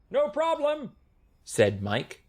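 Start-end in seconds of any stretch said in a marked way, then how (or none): 0.1-0.9 high-pitched little character voice; sound man's reply. A narrator's reading. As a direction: chirp a quick high reply. Sound man answers mayor.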